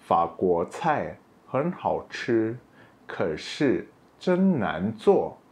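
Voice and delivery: slow, careful Mandarin example; spoken slowly as a model sentence. Shown as a demonstration. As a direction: read it out slowly for learners. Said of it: "Kita coba lihat contoh kalimat".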